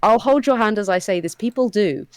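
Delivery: gently condescend to a clueless critic; mock-sympathetic. Streamer retelling a reply to an accent critic, mock-sympathetic.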